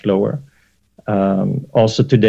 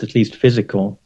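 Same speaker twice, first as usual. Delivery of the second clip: physical given extra weight; stress on physical. Real, not acted. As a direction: lean on the word physical. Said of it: "I emphasize the word physical".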